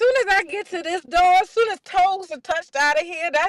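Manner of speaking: very high, loud, forceful declaration. Quoting the other speaker's earlier words back to them: imitating a forceful declaration. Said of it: "And you said it with force".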